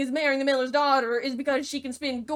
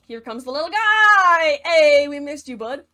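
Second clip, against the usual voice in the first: excited welcome; 4 semitones higher, 13 dB louder than usual. Acted. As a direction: hail him like a long-missed buddy. Cheering the little guy's return.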